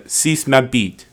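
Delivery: slow, English-accented French for "Suce ma bite". Shown as a demonstration. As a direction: say "Suce ma bite" like a Brit with clumsy vowels. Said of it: "Here's my English person, uh, doing French".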